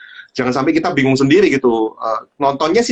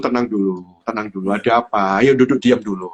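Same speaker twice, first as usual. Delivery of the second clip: calming; 4 semitones lower than usual. Retold or imitated. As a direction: talk an upset kid down kindly. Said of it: "saya harus melayani dengan kasih".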